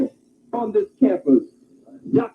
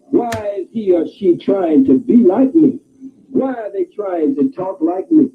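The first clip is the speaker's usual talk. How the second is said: puzzled white folks; 4 semitones higher than usual. Retold or imitated. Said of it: "they look at you and say".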